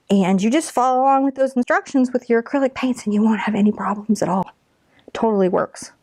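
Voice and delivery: hushed, half-whispered aside; whispering. Real, not acted. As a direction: lean in and whisper it like a secret. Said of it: "I don't know why I'm whispering".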